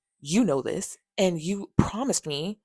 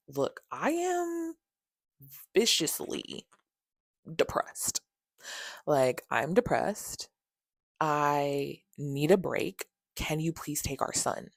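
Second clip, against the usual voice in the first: imitated boohoo crying; 3 semitones lower, 4 dB quieter, slower than usual. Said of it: "I'm, like, boohoo crying to her".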